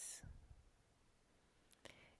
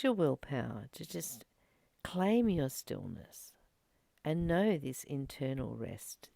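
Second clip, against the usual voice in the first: guided meditation. Acted. Leads a short stillness meditation.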